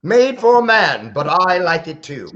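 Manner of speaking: high, lilting mock-Irish leprechaun; Irish accent. Shown as a demonstration. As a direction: put on a playful Irish brogue. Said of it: "I can do Irish".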